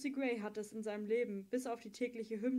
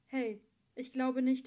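urgent; 2 semitones higher, 6 dB louder than usual. Acted. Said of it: "mit einer plötzlichen Dringlichkeit".

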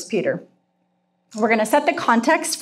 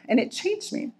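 voice breaking; 8 semitones higher, 7 dB quieter than usual. Real, not acted. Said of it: "I especially cry when I talk".

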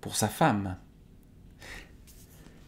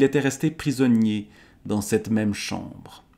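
measured, clearly projected storytelling read; lightly lilting literary narration; story narration; 3 semitones higher, 3 dB louder than usual. A narrator's reading. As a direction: read the old tale aloud to listeners. Reads an Arthurian romance aloud.

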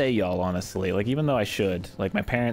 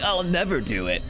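defiant protagonist; 6 semitones higher than usual. Acted. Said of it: "the protagonist is like".

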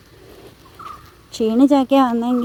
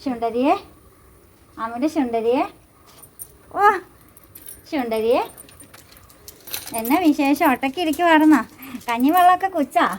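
cooing pet talk; 4 semitones higher than usual. Acted. Coos to the tethered calf.

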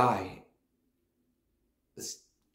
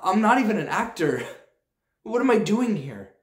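much higher and louder, laughing in despair; panicked inner voice; 5 semitones higher, 5 dB louder than usual. Acted. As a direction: spiral into panic at yourself. Panicking mid-audition, inner voice.

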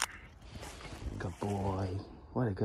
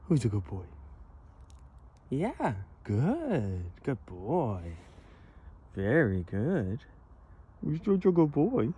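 talking to a dog; 3 semitones higher, slower than usual. Real, not acted. Sing-song praise to the dog.

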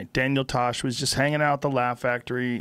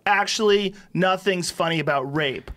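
imitating a self-important interjection, pitched up; mock self-important heckle, higher at the start; self-aggrandizing heckler; 6 semitones higher than usual. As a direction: call out like a self-righteous audience member. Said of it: "very self-aggrandizing".

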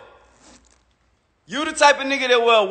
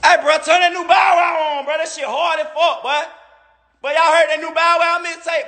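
mock hype fan; 5 semitones higher than usual. Rapper sarcastically voicing fans who want another rapper, mock hype shout. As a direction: ham up a fan begging for the song. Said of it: "when the last time a nigga said".

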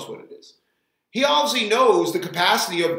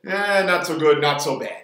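lightly mimicked Greek accent; heavy Greek accent; 4 dB louder than usual. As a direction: echo the diner owner's Greek-accented catchphrase. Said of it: "with this really heavy Greek accent".

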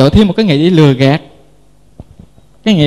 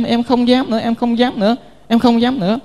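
softer, higher begging, lightly acted; mock pleading whimper; 4 semitones higher, 5 dB quieter than usual. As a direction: beg the officer meekly, half-crying. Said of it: "nhào lại khóc lóc". (giả giọng van xin nho nhỏ)

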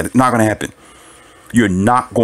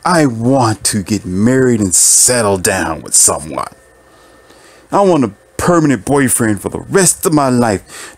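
mocking her voice. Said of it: "she's like".

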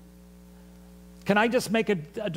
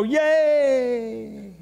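high, loud mock cheer of a delighted crowd; 5 semitones higher, 5 dB louder than usual. Pastor mimics eager followers cheering, high loud mock yay.

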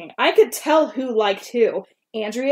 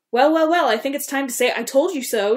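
gloating; 4 semitones higher than usual. Acted. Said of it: "James shouted at me".

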